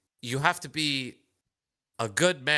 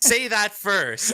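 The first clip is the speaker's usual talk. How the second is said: mocking voice; 8 semitones higher, 5 dB louder, slower than usual. Mocking partner's advice.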